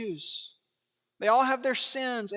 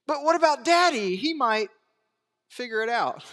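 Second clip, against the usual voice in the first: worried son; 3 semitones higher, 4 dB louder than usual. Pretend. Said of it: "if we do it again".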